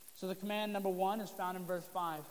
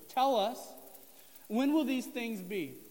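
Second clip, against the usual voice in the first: louder, pleading question; eager disciples; 3 semitones higher, 4 dB louder, slower than usual. Retold or imitated. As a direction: press the teacher for an answer. Disciples urgently ask Jesus.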